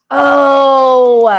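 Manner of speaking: loud excited gasp of inspiration; sudden idea. Real, not acted.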